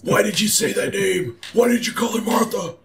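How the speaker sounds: high-pitched mock anguish; hammed-up anguished cry. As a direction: demand it high, in melodramatic torment. Hammed-up parody of anguished outcry.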